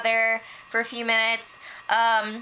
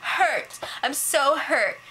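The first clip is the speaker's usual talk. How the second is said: higher, whiny imitation of crying; mock tearful hurt; 3 semitones higher than usual. Vanessa confronting the housemates about the rumor, in mock tearful hurt. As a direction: imitate someone tearfully wounded, lightly overdone. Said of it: "so Vanessa starts crying".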